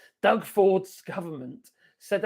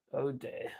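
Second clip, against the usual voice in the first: whispered; 6 semitones lower, 9 dB quieter than usual. Real, not acted. Muttering dismay at news.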